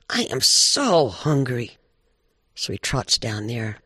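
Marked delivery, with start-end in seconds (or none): 0.1-1.8 slow, stretched-out moan of hunger; hungry coyote. Acted. Coyote spots Badger's bag while starving, slow and longing. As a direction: drag the words out with longing.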